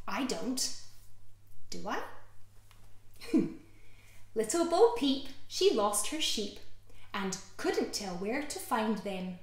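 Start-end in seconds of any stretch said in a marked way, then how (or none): 4.3-9.4 put-on slow lilting rhyme read to a child; sing-song it gently; nursery rhyme. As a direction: storytime rhyme voice.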